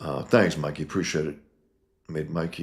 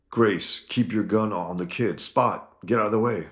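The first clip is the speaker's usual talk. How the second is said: higher, louder commands to the gang; barked orders; 5 semitones higher, 4 dB louder than usual. Acted. Gang leader ordering his men around, loud and high. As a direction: snap orders at your crew.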